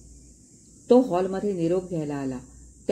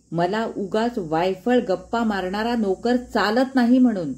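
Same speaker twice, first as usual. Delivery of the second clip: angry scolding; 3 semitones higher than usual. Acted. Father rebuking the tutor for chatting with the boys, angry. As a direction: tear into him, climbing to the last question.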